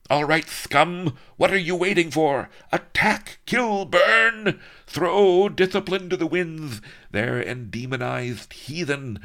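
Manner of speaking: very high, loud ranting battle cry; high, loud war-cry harangue. Acted. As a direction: whip the troops into a frenzy. Viceroy ordering the attack.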